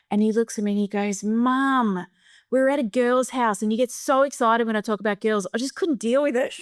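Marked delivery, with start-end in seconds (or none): 1.2-6.5 high-pitched, pleading son; mock-exasperated confession, rising higher; imitated exasperated teen. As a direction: act out a teenager fed up with Mum. Son's exasperated confession to mum.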